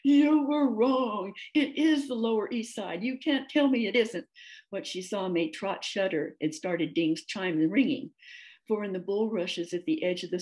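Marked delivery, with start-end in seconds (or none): 0.0-4.3 high, loud cow in a panic, drawing out the opening; alarmed exclamation. A narrator's reading. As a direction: wail it in high-pitched alarm. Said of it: "terrified moo before exclaiming".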